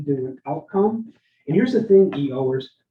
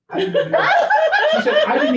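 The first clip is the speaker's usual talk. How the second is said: laughing; 6 dB louder than usual. Retold or imitated. Retelling Katie's shocked report.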